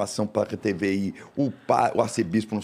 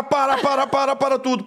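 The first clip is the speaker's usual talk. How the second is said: stopping the show; 13 semitones higher than usual. Retold or imitated. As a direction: shout "para" to halt everything. Host halts the show on stage. (apresentador gritando para parar tudo, bem alto)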